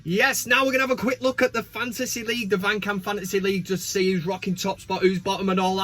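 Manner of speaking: quick run-through; hurried. Real, not acted. Host rushing through the fantasy league intro, hurried. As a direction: rattle it off briskly. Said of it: "I'll do it really quickly".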